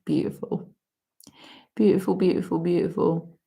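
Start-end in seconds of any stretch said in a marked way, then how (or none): 0.0-0.7 whisper. Real, not acted. Breathed in awe.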